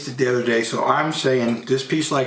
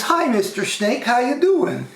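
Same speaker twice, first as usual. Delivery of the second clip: high, drawn-out frog greeting; high storybook frog voice; frog character; 9 semitones higher, slower than usual. Acted. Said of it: "And he says".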